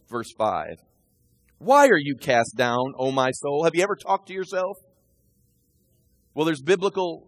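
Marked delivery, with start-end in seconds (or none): 1.6-3.6 slow reading. Acted. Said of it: "He's talking to himself".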